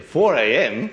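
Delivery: Four A M? laughed out high and loud in disbelief; half-laughing mock disbelief at leaving at four; incredulous laugh. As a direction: laugh it out, can't believe how early. Retold incredulous reply to 4 AM.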